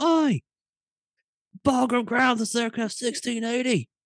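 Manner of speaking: terrible put-on Australian accent, very high pitched. Retelling his own radio chatter call, in a bad australian accent. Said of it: "with a fucking horrible Australian accent".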